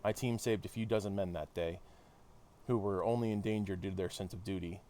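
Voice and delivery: measured read-aloud of a hero's debrief; story narration. Acted. Hero recounting the London mission to listeners, narrated. Reads game dialogue aloud.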